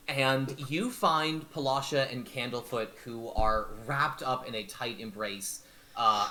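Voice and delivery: usual speaking voice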